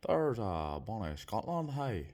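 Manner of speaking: put-on a half-hearted try at a Scottish accent, drawn out; lightly mock Scottish accent, slow; weak Scottish accent attempt. Admiring the view from his hotel, trying a Scottish accent. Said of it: "Not really a Scottish accent".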